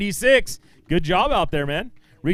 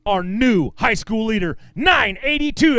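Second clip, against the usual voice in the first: excited announcement; 4 semitones higher, 3 dB louder, slower than usual. Real, not acted. Announcing new leader's weight.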